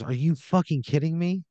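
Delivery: high-pitched mock outrage; indignant disbelief. Wife to neighbor over the hurt dog, acted indignation. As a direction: play an affronted, incredulous neighbor.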